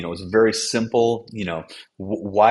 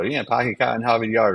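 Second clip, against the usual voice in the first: mock Boston catchphrase, pitched up a little; contrived Boston accent; 4 semitones higher than usual. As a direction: put on a clichéd Boston accent, dropping the Rs. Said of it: "or whatever people say".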